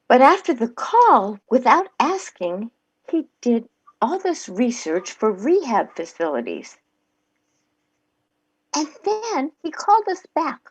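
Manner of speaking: friendly testimonial delivery for a commercial; ad read. Shown as a demonstration. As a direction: read the spot like a sincere customer. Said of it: "Here we go".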